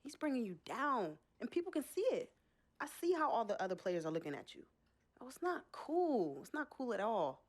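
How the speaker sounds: rising, emphatic scolding; indignant dressing-down that builds; heated reproach. Acted. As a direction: confront him, hitting the key words harder. Sister confronts him in acted quarrel.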